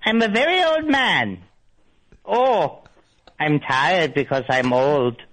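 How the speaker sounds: lightly voiced very old man. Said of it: "Should I do my old man voice?".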